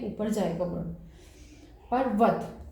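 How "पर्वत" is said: पर्वत said quickly, the र short and tucked in; quick normal say. Shown as a demonstration. Teacher saying पर्वत at normal quick speed. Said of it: "ये पर्वत fast हम लोगों ने बोला है".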